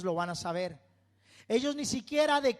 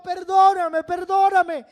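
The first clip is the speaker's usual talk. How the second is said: louder, higher, desperate cries for forgiveness; screamed plea; 9 semitones higher, 12 dB louder than usual. Retold or imitated. Man in his cell screaming to God for pardon. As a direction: beg at full voice, pleading.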